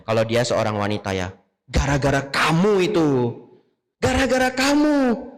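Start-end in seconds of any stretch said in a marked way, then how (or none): 1.7-5.3 mock scolding wife, voice climbing high; nagging blame. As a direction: pin the blame on the husband, grumbling. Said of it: "Dia ngomel-ngomel seharian". (istri mengomel menyalahkan suami)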